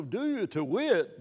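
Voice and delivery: slow stress on "you" in "do you to wit"; slow archaic phrase. Shown as a demonstration. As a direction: draw out "do you to wit" with weight on "you".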